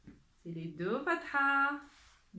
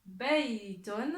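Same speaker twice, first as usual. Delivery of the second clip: lecture appuyée; 4 dB louder than usual. Shown as a demonstration. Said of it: "Je vais lire les mots".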